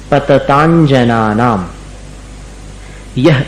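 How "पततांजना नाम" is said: पततांजना slow with clear 'anjana'; anjana sound. Shown as a demonstration. Teacher repeating for students, slow. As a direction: say पततांजना नाम carefully. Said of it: "अंजना जैसा उच्चारण".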